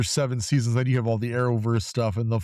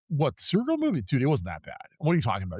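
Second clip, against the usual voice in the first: surprised disbelief; 3 semitones higher, faster than usual. Retold or imitated. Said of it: "I literally was like".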